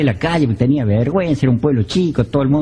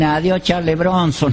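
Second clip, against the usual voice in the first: sheepish cover-up; slower than usual. Retold or imitated. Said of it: "los muchachos pa' joderme me dicen".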